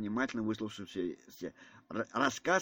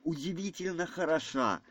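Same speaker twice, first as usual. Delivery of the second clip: understated, higher-pitched admiration; fervent; 5 semitones higher than usual. A narrator's reading. Prince admires the portrait of Настасья Филипповна, fervently. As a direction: admire her with a touch of ardour. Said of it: "прибавил он тотчас же с жаром".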